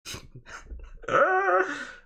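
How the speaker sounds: loud, very high burst of laughter; high-pitched laugh. Real, not acted. Streamer's own outburst after accent demo.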